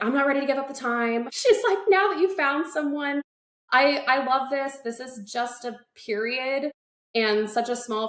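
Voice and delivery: mom pleading, teary. Retold or imitated. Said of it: "my mom's crying".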